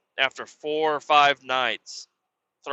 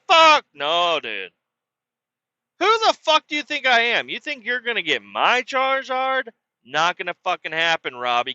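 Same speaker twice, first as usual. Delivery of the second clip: indignant refusal; 3 semitones higher than usual. Retold or imitated. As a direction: refuse him like a furious kid. Kid refusing the trade indignantly.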